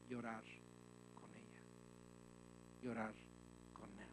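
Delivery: low, soft, sinking at each phrase end; gentle low voice, falling away; hushed, tender. Real, not acted. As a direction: drop low and soft, pausing between phrases. Tender counsel on weeping with mourners.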